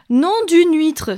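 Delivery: high, loud, drawn-out oath; crying out. A narrator's reading. Siren waking first at the signpost, crying out. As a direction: stretch out a shocked cry. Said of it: "s'écrie-t-elle".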